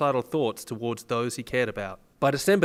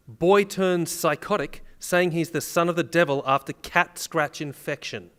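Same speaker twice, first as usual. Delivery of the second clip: headline read; 3 semitones higher, slower than usual. Shown as a demonstration. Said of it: "The headline reads".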